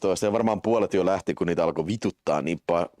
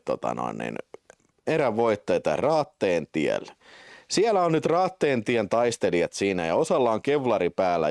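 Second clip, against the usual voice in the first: normal talking voice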